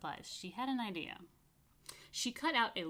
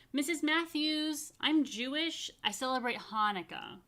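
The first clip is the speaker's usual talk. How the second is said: put-on eager child; 5 semitones higher, 4 dB louder than usual. A narrator's reading. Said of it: "Jennifer Jacob's hand shot up".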